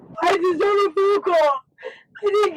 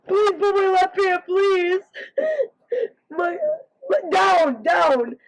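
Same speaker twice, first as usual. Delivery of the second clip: yelling. Real, not acted. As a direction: yell the plea. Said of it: "you don't have to yell".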